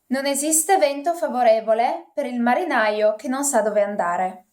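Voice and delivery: reading Italian in her own regional Italian accent. Shown as a demonstration. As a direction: read the line naturally in your home Italian accent. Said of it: "That's my accent".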